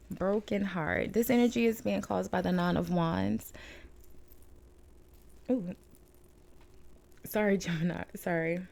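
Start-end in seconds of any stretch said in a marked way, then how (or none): 0.1-1.1 slowly and carefully restated; slow, deliberate. Real, not acted. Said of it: "my bad". 5.5-5.7 hiccup. Real, not acted. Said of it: "Now I have the hiccups". 7.2-8.6 apologizing through hiccups; laughing sorry mid-hiccup. Real, not acted. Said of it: "Now I have the hiccups".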